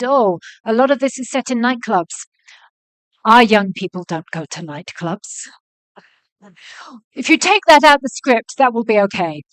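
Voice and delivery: weak attempt at a Nigerian accent; lightly faked Nigerian accent, official's voice; bad Nigerian accent. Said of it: "That was a really bad Nigerian accent".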